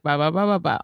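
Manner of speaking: "ba, ba, ba, ba, ba" in an even run; even Hebrew rhythm. Shown as a demonstration. Showing how Hebrew goes, "ba, ba, ba, ba, ba" evenly. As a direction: rattle off "ba, ba, ba, ba, ba" without inflection. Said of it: "In Hebrew, it's, like, more like".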